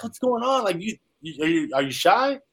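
high-pitched retold tearful questioning; imitating crying mom. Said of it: "and she was crying".

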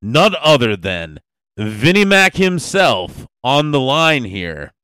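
loud, booming wrestling-show welcome; hyped announcer intro. Acted. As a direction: sell the big guest like a ring announcer. Host introduces famous guest.

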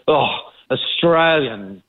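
slow, drawn-out imitated contempt; mock disdain. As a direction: play a dismissive neighbour, dragging it out. Voicing a neighbour dismissing local TV.

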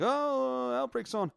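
excited. Retold or imitated. Everybody finding Outbreak on Netflix, mock excited. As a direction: imitate everyone thrilled, drawing out the oh. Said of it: "all excited".

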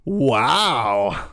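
a firmly voiced "Wow"; mild ghostly exclamation; loud clear voice. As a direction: read the ghost's word out clearly. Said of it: "a woman's voice that said very loudly and clearly".

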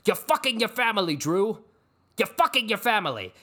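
high, loud theatrical accusation; hammed-up outraged tycoon; Logan Roy. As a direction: berate him like a melodramatic patriarch. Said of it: "He went full Logan Roy".

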